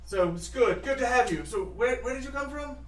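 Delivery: mayor greeting the early caravan; lightly voiced mayor. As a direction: welcome them eagerly. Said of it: "he's like".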